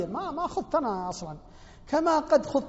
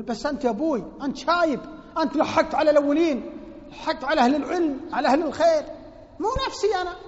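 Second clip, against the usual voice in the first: higher, louder retort of a son; son's retort; 5 semitones higher, 5 dB louder than usual. Retold or imitated. Son answering his father, higher and louder. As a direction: argue back at the old father.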